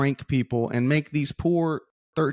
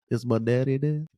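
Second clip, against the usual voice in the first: put-on little chubby kid. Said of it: "little chubby kid".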